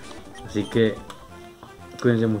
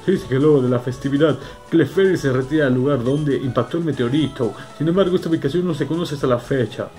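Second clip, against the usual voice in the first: reading aloud. Acted. Reads book text aloud.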